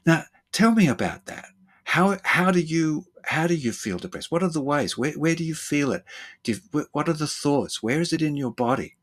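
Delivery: lightly voiced eager curiosity; curious therapist. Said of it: "They go".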